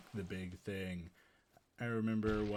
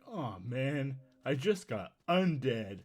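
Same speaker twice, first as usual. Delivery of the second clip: loud, raised-pitch comic lament; sitcom zombie; 5 semitones higher, 7 dB louder than usual. Acted. Stabbed zombie setting up the laugh track, hammed-up lament. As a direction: deliver a hammed-up sitcom punchline. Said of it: "and they'd be like".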